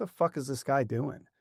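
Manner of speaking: ordinary delivery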